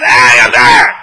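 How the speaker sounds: very loud, low burst of parental shouting; angry yelling. Acted. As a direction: bellow at the child. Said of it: "because you're yelling, you're mad, you're angry".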